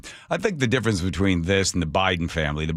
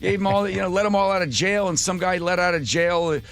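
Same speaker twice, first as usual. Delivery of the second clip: much higher, squeaky outraged gossip; mock outraged voice; 12 semitones higher than usual. Host mimicking news viewers, high mocking whine. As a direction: whine it like a shocked busybody.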